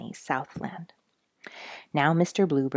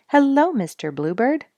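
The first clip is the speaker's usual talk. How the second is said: lightly voiced cheerful robin, higher; a hint of a chirpy bird greeting his neighbor; friendly high call of a jolly robin; 8 semitones higher, 7 dB louder than usual. A narrator's reading. Robin Red greets Bluebird.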